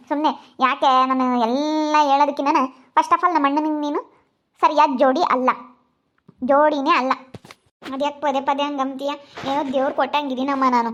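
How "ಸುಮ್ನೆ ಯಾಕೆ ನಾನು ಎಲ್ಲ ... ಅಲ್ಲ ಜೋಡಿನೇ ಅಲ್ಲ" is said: louder, contemptuous tirade at the bride; angry scolding. Acted. Sister-in-law loudly insults her brother's new wife, angry. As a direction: tear into her loudly with scorn.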